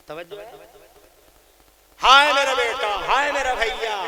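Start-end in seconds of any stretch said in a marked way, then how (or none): 2.0-4.0 mock lament, louder and higher; imitating family wailing. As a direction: wail like a grieving mother over a sick son. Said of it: "पूरा घर रो रहा है". (रोने की नक़ल करते हुए)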